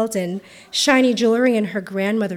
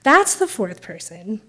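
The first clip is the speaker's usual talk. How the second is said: slow, matter-of-fact; as if obvious. Retold or imitated. Renee tells the bouncer what should be plain: slow, matter-of-fact. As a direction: spell out the obvious, unhurried. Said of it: "says as if it's obvious".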